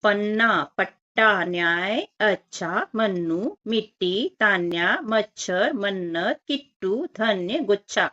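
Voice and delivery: put-on each word read out separately for children; reading word list aloud. Shown as a demonstration. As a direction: model each word slowly for the class. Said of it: "तो हम पढ़ लेते हैं".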